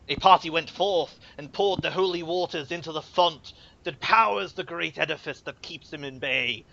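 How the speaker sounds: put-on grave old cleric intoning; templar priest voice. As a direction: speak as a solemn templar.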